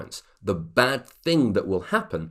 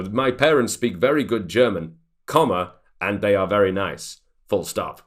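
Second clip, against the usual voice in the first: reading punctuation aloud; 4 dB louder than usual. Shown as a demonstration. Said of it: "Please don't do that".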